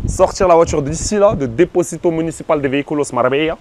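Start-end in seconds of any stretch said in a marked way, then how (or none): 1.5-3.6 put-on French speaker's showy Spanish accent. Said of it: "Très bel accent espagnol".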